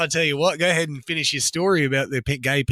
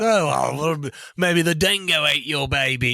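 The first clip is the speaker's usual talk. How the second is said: mock Australian accent. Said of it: "I went British there for a sec".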